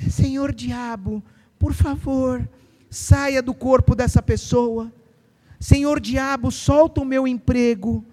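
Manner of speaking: slow, overly polite begging; mock a timid believer; meek polite plea. Mocking a timid believer politely begging the devil, slow. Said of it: "você vê irmão lá".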